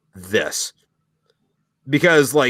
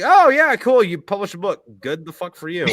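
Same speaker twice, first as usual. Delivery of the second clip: mock dismissive friends; 3 semitones higher than usual. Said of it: "your friends and family is like".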